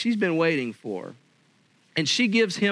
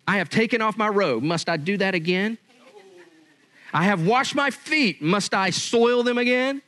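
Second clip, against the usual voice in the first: mock annoyed wife; 3 semitones higher than usual. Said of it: "So she's mad".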